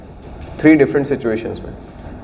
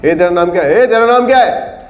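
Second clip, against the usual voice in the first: volume building from firm to full yell, much higher and louder; escalating from raised voice to a scream; rising to a shout; 11 semitones higher, 6 dB louder than usual. Shown as a demonstration. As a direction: climb up to screaming the question. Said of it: "loud, चिल्लाना।".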